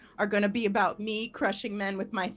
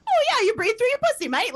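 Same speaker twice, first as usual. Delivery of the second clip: high, loud, fast mock Australian; imagined Australian slang; 11 semitones higher, 7 dB louder, faster than usual. Imagined Australian tossing off a local saying, high quick Australian accent. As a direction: toss it off as a chirpy Australian saying. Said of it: "You know how they, like, put".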